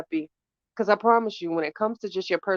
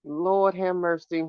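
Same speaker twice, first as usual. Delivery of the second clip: drawn-out, slow Lord have mercy; weary, slow plea; slow lament; slower than usual. Retold or imitated. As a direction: stretch "Lord" like a tired sigh. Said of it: "I just be saying".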